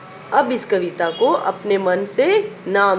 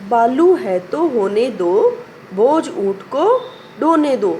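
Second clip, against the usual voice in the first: poem recitation; slower than usual. Shown as a demonstration.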